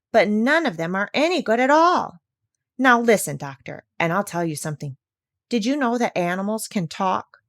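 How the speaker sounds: lightly voiced bossy parrot; parrot Polynesia. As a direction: insist like a clever bird.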